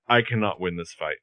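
low, soft voice of defeat; mock deflated. Boyfriend realizing he has lost the argument, mock deflated. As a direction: imitate someone sinking into resignation. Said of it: "that face deflates into".

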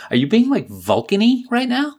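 mock-incredulous high rise; amused disbelief. Real, not acted. Teasing high pitched question.

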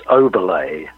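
Oberle said with a final "lay"; own surname pronunciation. Shown as a demonstration. Musician telling host how his surname is said, Oberle ending in "ay". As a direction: pronounce Oberle as "OH-ber-lay". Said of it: "how you like to pronounce your last name".

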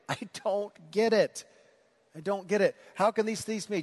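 he just can't follow, mock frustration; frustrated Nicodemus. Nicodemus to Jesus, a hint of frustrated confusion. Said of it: "So he's frustrated".

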